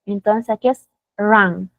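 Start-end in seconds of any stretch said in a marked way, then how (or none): 1.2-1.7 "run" with the mouth opened wider, like "ran"; open vowel. Shown as a demonstration. Teacher showing the past form, open a pronunciation. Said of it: "vamos a abrir un poquito más la boquita".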